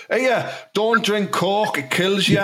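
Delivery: high, drawn-out ghostly warning; pretend ghost. Dead Pepsi drinker's ghost warning viewers, high slow ghost voice. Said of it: "my ghost will float up".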